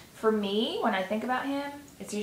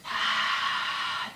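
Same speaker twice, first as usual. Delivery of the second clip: sigh. Shown as a demonstration. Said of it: "I'm serious, be loud".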